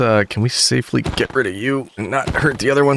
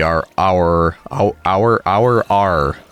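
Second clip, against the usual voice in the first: stuttering; much slower than usual. Real, not acted. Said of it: "That was very difficult to say".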